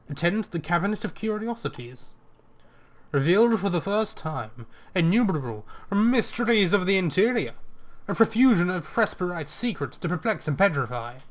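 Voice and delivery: carnival barker. Acted. Player reading the Cabinet of Curiosities ad, as a mock barker. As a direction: sell the mysteries like a fairground barker. Reading a showman's advertisement aloud.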